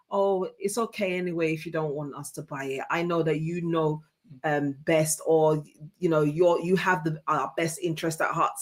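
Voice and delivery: soft, gentle reassurance to her husband; nice and encouraging. Retold or imitated. Wife gently agreeing with husband about the sideboard, softly encouraging. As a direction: let him down easy, kindly agreeing. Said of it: "Something really nice and encouraging".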